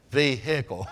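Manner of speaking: "vehicle" with the hick part stressed, h sounded. Retold or imitated. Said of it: "Your emphasis is on the word hick".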